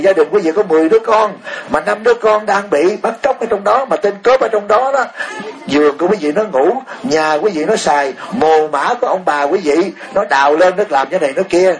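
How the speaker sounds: impassioned sermon climax; heated build. Real, not acted. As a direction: preach it harder with each line, pitch climbing. Heated rhetorical build to congregation.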